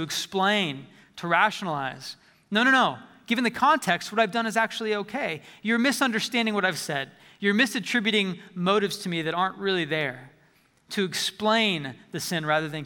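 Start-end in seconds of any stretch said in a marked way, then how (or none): 2.5-10.3 a touch of defensive justifying, quick protest; defensive excuses. Pretend. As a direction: lightly play the self-justifier brushing it off. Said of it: "to get defensive, to justify".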